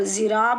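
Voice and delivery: ज़िराब begun with a plain z as in "zoo"; everyday z reading of ज़िराब; buzzing z variant. Shown as a demonstration. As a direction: buzz a clean z to start ज़िराब. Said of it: "भी पढ़ते हैं".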